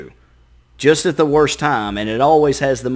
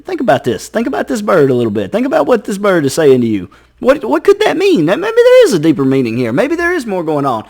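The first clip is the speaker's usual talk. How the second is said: building louder and much higher up to the question; brain getting worked up; 7 semitones higher, 4 dB louder than usual. Retold or imitated. Brain working the person up about the bird, building excitement. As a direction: spin it into a frenzy. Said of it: "your brain goes".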